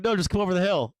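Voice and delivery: high, pleading coaxing voice; coaxing coyote voice. Retold or imitated. Coyotes urging the shepherd over the hill, high and coaxing. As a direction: tempt him over the hill. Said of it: "the cat's like".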